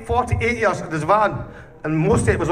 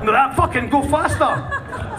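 retold yell; 7 semitones higher, slower than usual. Yelling at the taxi driver.

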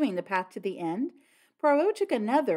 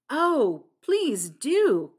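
high, louder, delighted plea; eager cry; 6 semitones higher, 6 dB louder, much slower than usual. A narrator's reading. Flora accepting Blunt's offer of skins, crying out eagerly. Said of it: "cried Flora".

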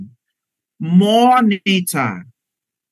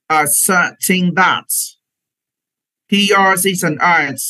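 slow phrase-by-phrase reading. Shown as a demonstration. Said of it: "chúng ta tự đọc".

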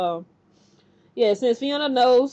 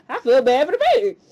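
pitying; 8 semitones higher, 5 dB louder, faster than usual. Retold or imitated. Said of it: "I'm like".

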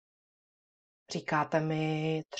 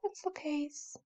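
whispered; 10 semitones higher, 10 dB quieter than usual. Shown as a demonstration. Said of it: "řekneme to strašně potichoučku".

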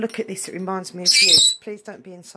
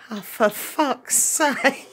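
exasperated; 3 semitones higher, 5 dB louder, much slower than usual. Real, not acted. Dog won't join in.

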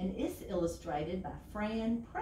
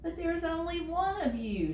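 higher, louder exasperated shout; 10 semitones higher, 4 dB louder than usual. A narrator's reading. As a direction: shout it in frustration. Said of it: "shouted Bird".

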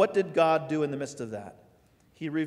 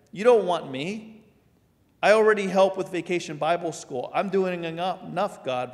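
higher, louder pleading excuse; protesting listener; 3 semitones higher, 6 dB louder than usual. Retold or imitated. Churchgoer refusing God's call, higher whiny protest. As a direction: beg your way out of it.

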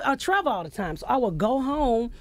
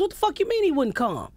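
retold outrage; 5 semitones higher than usual. Retold angry birthday phone rant.

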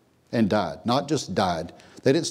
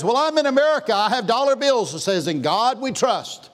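a high, louder mock voice of a smug excuse; mock excuse-maker; 10 semitones higher, 3 dB louder than usual. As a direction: play the self-assured doubter lightly. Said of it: "Somebody says".

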